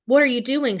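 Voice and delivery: shouting. Acted. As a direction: confront the crowd sharply. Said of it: "she shouts".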